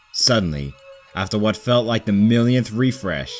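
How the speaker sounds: plain reading voice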